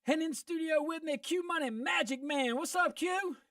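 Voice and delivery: winded after sprinting; talking while catching breath. Real, not acted. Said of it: "I'm out of breath".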